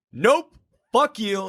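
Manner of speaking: high, drawn-out mock refusal; acted defiant refusal. Runner turning down the taxi driver, high defiant refusal.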